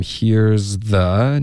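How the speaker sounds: very slow, deliberate "here's the"; here's the, drawn out. Shown as a demonstration. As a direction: say HERE'S THE slowly with a clear voiced z. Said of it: "你发的好像是that's the".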